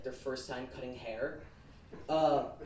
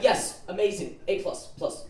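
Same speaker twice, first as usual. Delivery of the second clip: higher, louder gushing approval; overeager praise; 4 semitones higher, 5 dB louder than usual. Acted. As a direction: gush as if trying hard to convince. Acted over-eager false praise to stylist.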